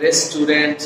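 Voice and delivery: "Restaurant" as res-tu-dent; another common mispronunciation. Shown as a demonstration. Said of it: "অনেকে বলে".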